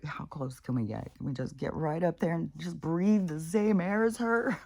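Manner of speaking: lightly voiced clingy pet; Max. Voicing pet with head on her knee, mock clingy eagerness. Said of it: "Max has got his head on my knee".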